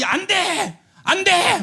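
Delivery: high commanding no; 단호한 금지. Retold or imitated. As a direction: forbid it firmly. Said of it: "막 그렇게 시작하는 거예요". (단호하게 금지하는 외침)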